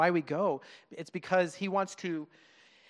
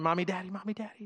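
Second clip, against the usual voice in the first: put-on child crying for parents; 3 semitones higher, faster than usual.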